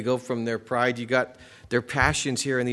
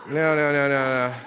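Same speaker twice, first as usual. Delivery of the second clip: laughing; 6 dB louder than usual. Real, not acted. Laughing at his own joke.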